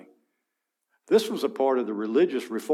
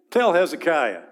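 disrespectful command; 3 semitones higher, 6 dB louder than usual. Acted. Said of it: "a little bit of disrespect here".

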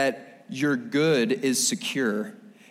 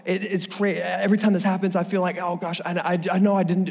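flustered prayer; 5 semitones higher than usual. Retold or imitated. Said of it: "we're like".

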